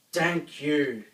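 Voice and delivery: loud booming thanks; giant's first words, booming; deep booming voice. A narrator's reading. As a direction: boom it out like a grateful giant. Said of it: "in a deep, booming voice".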